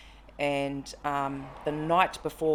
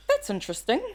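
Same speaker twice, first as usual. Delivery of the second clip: louder and higher, bemused understatement; stunned calm; 7 semitones higher, 6 dB louder than usual. Retold or imitated. Retelling seeing the toy car move by itself, bemused. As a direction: react coolly to something impossible. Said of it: "I looked at it and I'm like".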